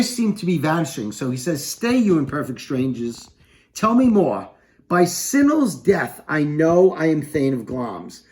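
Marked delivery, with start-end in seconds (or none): 1.6-8.2 Macbeth commanding. Acted. Teacher voices Macbeth commanding witches.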